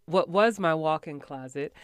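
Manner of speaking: ordinary talk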